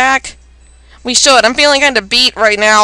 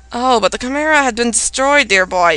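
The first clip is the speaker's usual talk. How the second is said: softly spoken villain; evil villain voice; 3 semitones lower, 4 dB quieter than usual. Acted. Villain answering about the destroyed Chimera, evil voice. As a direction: play an evil mastermind, hushed and low. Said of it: "I'm gonna put an evil voice for this".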